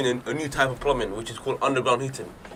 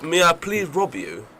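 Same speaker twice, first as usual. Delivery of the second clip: mock posh London; much slower than usual. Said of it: "they sound way more posh than us".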